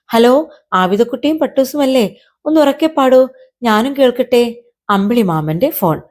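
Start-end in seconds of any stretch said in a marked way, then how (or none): 0.1-4.6 higher-pitched, lightly acted caller; cheery phone caller. Uncle moon phoning to hear the song, lightly voiced caller. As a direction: call out a friendly request by phone.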